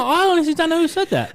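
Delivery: high, loud denial cracking into laughter; laughing fake innocence. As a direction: pretend innocence but keep laughing.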